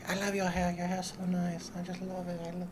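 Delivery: a hint of an accented girl admiring his hair; light mock Asian accent. One tourist girl gushing over his locks in a light mock Asian accent. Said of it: "they all had that accent".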